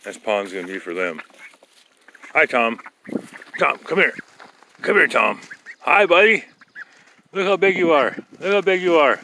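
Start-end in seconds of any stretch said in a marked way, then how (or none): 2.3-6.4 pet talk voice. Real, not acted. Talking to the turkey. 7.3-8.2 pet talk voice. Real, not acted. Baby talk to the turkey. 8.4-9.2 pet talk voice. Real, not acted. Baby talk to the turkey.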